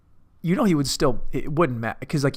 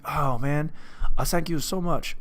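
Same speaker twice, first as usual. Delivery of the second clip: attempted African accent that drifts toward Asian; badly faked African accent, slightly higher on the thanks; botched African accent; 4 semitones higher than usual. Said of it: "am I doing an Asian accent for my African accent".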